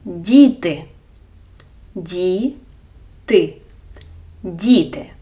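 діти modelled, stressed first syllable; careful Ukrainian word. Shown as a demonstration. Teacher models діти for learners. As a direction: say діти clearly. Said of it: "Або".

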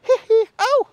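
high, loud "hee hee, oh!"; high-pitched giggly whoop; playful whoop. Pretend. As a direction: squeal in playful glee. Playful whoop after naming off-road mode.

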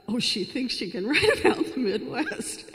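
laughing through a mock thought. Reader teasing the author about writing the Midwest, laughing. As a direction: let a laugh break into the teasing line.

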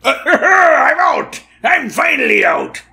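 excited shout. Acted. Voicing freed character.

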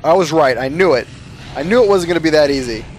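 triumphant. Real, not acted. Predicted game trap springs.

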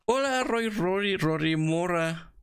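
high, drawn-out singsong hello; hammed-up greeting. Greeting Rory Mora in the game, drawn-out singsong hello. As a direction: stretch out the name teasingly.

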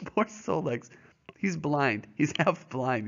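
teacher to class, laughing at poor Sol-leks; laughing pity. Real, not acted. Teacher pities the half-blind dog.

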